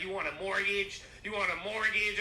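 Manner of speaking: high, loud pestering offer; pushy mock salesman. Broker pestering the dead about mortgages, pushy mock pitch. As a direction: hammer the pitch like a manic broker. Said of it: "You like".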